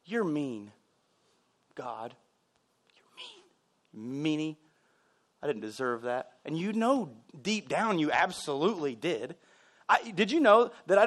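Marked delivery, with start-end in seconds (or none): 0.1-6.3 put-on whiny child. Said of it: "we say this".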